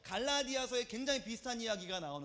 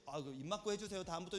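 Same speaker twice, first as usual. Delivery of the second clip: soft, casual polite reminder; gentler request; 3 semitones lower, 6 dB quieter than usual. Shown as a demonstration. How the doctor could have asked, gently. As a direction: show the kinder way of asking, softly. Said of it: "이렇게 말해도 되는 건데".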